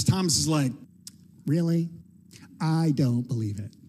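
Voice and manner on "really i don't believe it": flat disbelief. Retold or imitated. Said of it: "I'm sure he said it just like that".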